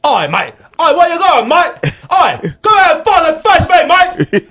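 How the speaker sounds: high, loud, laughing Cockney "Oi, mate" taunts; mock Cockney thug. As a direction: pick a pub fight as a drunk Londoner. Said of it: "Was that English?".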